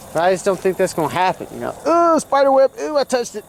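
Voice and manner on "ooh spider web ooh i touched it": sudden high startled ooh, louder; real yelp of surprise at a spider web. Real, not acted. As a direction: caught off guard by a web, squeal it out.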